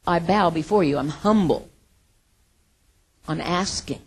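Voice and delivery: humble and nice. Retold or imitated. Preacher voicing David's men asking Nabal politely, mildly humble. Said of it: "in a very, very nice way".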